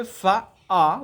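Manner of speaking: ফা, আ as separate long beats; drawn-out syllables. Shown as a demonstration. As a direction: sound out ফা then আ for the class. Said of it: "ফাতে টান".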